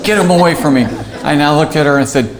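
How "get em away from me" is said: higher, laughing through a mock yell. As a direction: retell the outburst while cracking up. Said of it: "I'm like".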